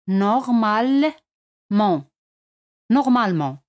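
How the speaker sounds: "normalement" with no final t sound; French normalement, silent t. Shown as a demonstration. Teacher models "normalement" for Spanish learners, silent final t. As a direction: say "normalement" ending on the nasal vowel. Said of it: "T al final no se pronuncia".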